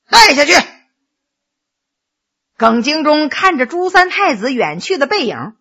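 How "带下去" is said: loud order to the guards; curt command. Acted. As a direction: order him away in a raised voice. Lord orders the prisoner taken away.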